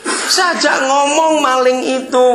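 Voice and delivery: high, loud, laughing through the words; can't stop laughing while telling it. Real, not acted. Preacher laughing as he tells the congregation about the thief.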